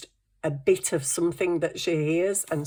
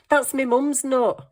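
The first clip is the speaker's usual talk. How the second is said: incredulous protest; 8 semitones higher, 4 dB louder than usual. Retold or imitated. Protesting to dad.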